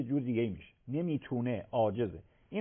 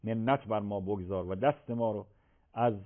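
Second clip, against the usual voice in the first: prayer; 2 semitones lower than usual. Real, not acted. Leads closing supplication.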